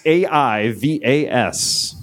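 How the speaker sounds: A I V A S, each letter slow and separate; spelling it out. Shown as a demonstration.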